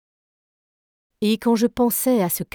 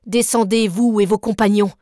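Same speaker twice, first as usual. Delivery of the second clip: firm order; 5 dB louder than usual. Acted. Nemo orders them below.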